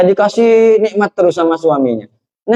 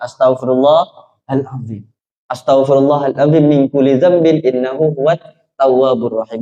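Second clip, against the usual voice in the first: slow recited istighfar; 5 semitones lower than usual. Acted. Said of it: "dia beristighfar".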